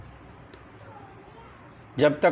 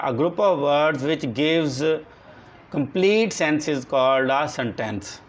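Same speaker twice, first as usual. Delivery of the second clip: very slow, word by word, for copying down; slow dictation; much slower than usual. Shown as a demonstration. Teacher dictating a definition to the class, slow and deliberate. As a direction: dictate each word so the class can write it.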